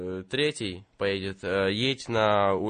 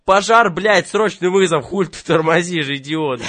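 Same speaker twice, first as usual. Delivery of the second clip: higher, louder furious yelling; angry shout; 6 semitones higher, 8 dB louder than usual. Acted. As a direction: chew him out for dawdling. Yells at the slow driver.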